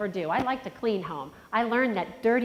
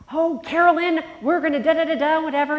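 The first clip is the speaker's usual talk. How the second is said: higher, louder breezy nurse impression; imitating the nurse; 7 semitones higher, 8 dB louder than usual. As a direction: rattle it off like a busy cheerful nurse. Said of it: "a nurse approached her once and said".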